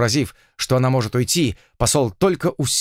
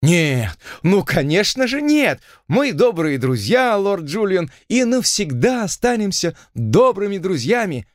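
emphatic refusal; 7 semitones higher than usual. Acted. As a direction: turn him down firmly and brightly. Heroine rejects the lord.

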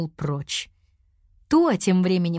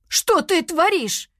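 high, outraged and a touch louder; raised indignant cry; 10 semitones higher, 3 dB louder, slower than usual. A narrator's reading. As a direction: scold her, shocked at the mess. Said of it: "возмутился Знаник".

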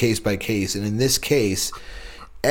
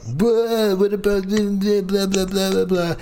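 high-pitched mocking blather; mocking politicians; 10 semitones higher, slower than usual. Mocking politicians' talk to a friend, high-pitched babble. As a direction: squeak out the politicians' empty babble. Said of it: "And then they were like".

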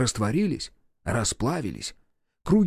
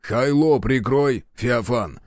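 curt, slow, a bit louder command; sharp; 3 dB louder, slower than usual. Acted. Commander silencing the soldier, sharp. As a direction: cut him off sharply. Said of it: "резко сказал Захар".

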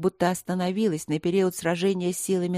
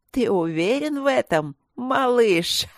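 high, loud otherworldly taunt; eldritch horror; 5 semitones higher, 4 dB louder than usual. A narrator's reading. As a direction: sneer down at the boy. Evil spirit taunts the boy. (потусторонняя насмешка)

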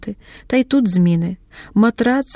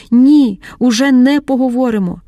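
hysterical shout; 3 semitones higher, 4 dB louder than usual. Acted. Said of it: "уже кричить істерично".

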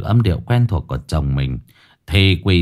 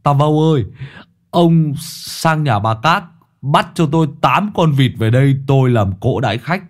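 calling out; 5 semitones higher than usual. Acted. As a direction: shout the order over to the neighbour. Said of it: "gọi to".

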